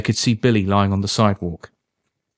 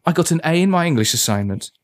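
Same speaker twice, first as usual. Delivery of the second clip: higher, proudly pleased; beaming; 7 semitones higher than usual. A narrator's reading. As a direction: announce it beaming, pitched up.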